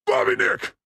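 high calling out a name. Real, not acted. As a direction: call out to your friend. Calling out to a friend.

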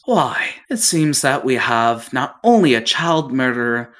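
lightly voiced gloating captain; mocking captain.

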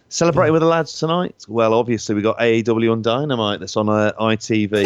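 a light put-on northern English manager's accent; Scott Parker northern accent. Mocking a manager's post-match interview in a northern accent. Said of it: "So I don't know why I did that accent".

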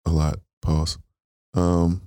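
hoarse, worn-out voice. Real, not acted. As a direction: speak through a hoarse sore throat. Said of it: "my voice is gone".

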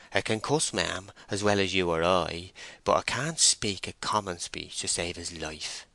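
lightly voiced country gossip; a hint of a talkative rustic; rustic farmhand explaining. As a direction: explain it as a rural labourer would. Voices Henry Fray explaining.

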